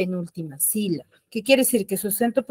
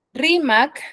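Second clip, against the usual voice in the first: Rimac with RI raised and stressed; teacher's demo of Rimac, higher, weight on RI; stress on first syllable; 5 semitones higher than usual. Shown as a demonstration. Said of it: "dónde tiene la mayor fuerza de voz".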